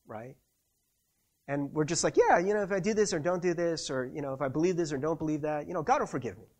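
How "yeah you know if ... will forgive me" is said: quick, offhand rattle; casual. Acted. Believer presuming on God's forgiveness, casually. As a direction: toss it off as no big deal. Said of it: "we just think of God so casually".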